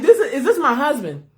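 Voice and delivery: mildly stunned disbelief, retold; retold shock. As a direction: replay a wife's bewildered question. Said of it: "I was shocked".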